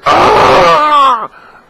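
sharp yell of muscle pain; pained shout. Retold or imitated. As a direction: cry out from stiff sore arms. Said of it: "I was like".

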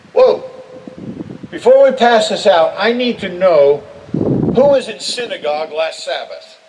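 a hint of a loud, fussy gatekeeper; mock stern Jesus. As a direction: hold the crowd back, mildly officious.

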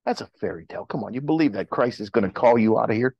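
low, incredulous mockery; dismissive doubter's challenge; scoffing world. Unbelieving world to Christians about the rapture, scoffing. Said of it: "The world might say".

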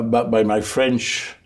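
English words with a heavy French accent, slowly. Real, not acted. A French politician recalling the BBC, speaking English with a French accent. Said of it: "par mon accent".

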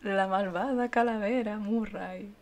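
light slow villain voice of the skull; a hint of Murray the skull; lightly voiced evil skull. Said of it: "ahora pareces Murray".

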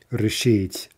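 решить stressed on "шить"; final-syllable stress. Shown as a demonstration. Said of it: "it's on the final syllable".

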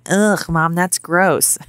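put-on lightly whiny child complaining; a hint of a whining kid. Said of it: "used a whiny voice".

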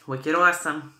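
Boston-style New England accent, dropped r's. Shown as a demonstration. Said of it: "That's my little New England accent".

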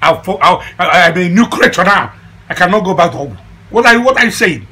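loud, indignant refusal; outraged protest. Acted. Insisting he is a new creature, outraged protest. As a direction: protest at full voice, rising high at the end. Outraged at advice to visit healer.

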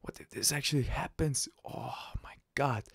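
hushed, breath-filled worry; retold inner dread. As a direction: sink into a half-whispered mock dismay. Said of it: "It was such a disaster".

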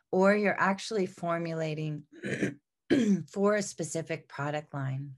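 stuffy, congested voice. Real, not acted. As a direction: speak through a congested nose. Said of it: "Sorry, I'm so congested".

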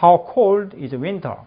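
How cold is winter? slow, falling at the end; drawn out for class to copy; slow teacher model. Shown as a demonstration. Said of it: "다 같이".

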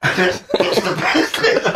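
words squeezed through real laughter; slow, breaking up with laughter; laughing. Real, not acted. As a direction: crack up while finishing the line. Cracks up at own story.

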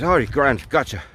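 lightly put-on Irish voice; easygoing reply in mock Irish; terrible Irish accent. Paddy agreeing with his instructor, light mock Irish accent. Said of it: "apologies for the terrible accent".

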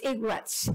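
"Igwats", squashed into two syllables; mispronounced Igorot. Retold or imitated. Immigration man asking about her word, mispronouncing it "Igwats". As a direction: say "Igwats", middle vowel swallowed. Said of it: "the man at the immigration said".

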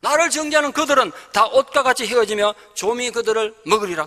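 triumphant reading of the verse; bold proclamation. Acted. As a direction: cry it out with confidence. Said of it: "그렇게 외치고 있습니다".

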